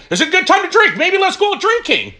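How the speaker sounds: a hint of a sly tempter; tempting inner voice. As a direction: tease like a little devil on the shoulder. Mocking the head's tempting voice.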